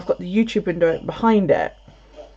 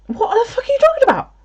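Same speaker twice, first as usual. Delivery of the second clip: high, disbelieving outburst; incredulous; faster than usual. Retold or imitated. Woken at night by Alex's alien call, incredulous outburst. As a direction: shoot it up in total disbelief.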